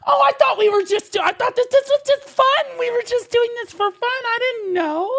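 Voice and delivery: high, loud goose-like honking. Real, not acted. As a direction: honk the words like a goose. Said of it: "I sound like a fucking goose".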